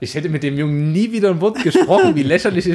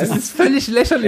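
indignant; 10 semitones higher than usual. Real, not acted. Indignant reaction.

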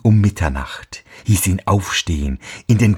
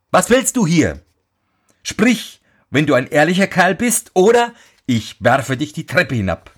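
much higher, urgent threat; calling out; 7 semitones higher than usual. A narrator's reading. Boy calls a second time at the ghost, high and threatening. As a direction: warn the ghost, fearless. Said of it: "Der Junge rief zum zweiten Mal".

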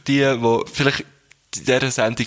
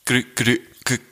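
a mild stutter on each restart; stuttering man. Acted. Joke stutterer greeting the other man on the bridge, mildly stammering. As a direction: stammer out the greeting, repeating the syllable. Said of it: "zwei Männer, die stottern".

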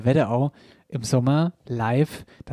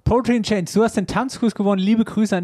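excited announcement; 6 semitones higher than usual. Acted. Gewinner ausgerufen.

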